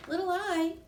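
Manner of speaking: high, loud call of a name; exclaiming. Acted. Capital T spotting the missing dot, loud high exclaim. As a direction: call her out in alarm. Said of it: "capital T exclaimed".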